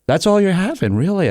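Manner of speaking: high, mock-disbelieving question; exaggerated teasing doubt; sarcastic. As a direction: challenge him in playful incredulity. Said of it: "sarcastic line of questioning coming his way".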